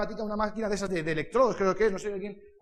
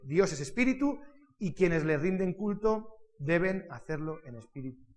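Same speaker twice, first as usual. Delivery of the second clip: measured, deliberate reading aloud; scripture reading; 3 dB louder than usual. Acted. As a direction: read the verse out clearly to a congregation. Reads Bible verses aloud. (lectura bíblica solemne y pausada)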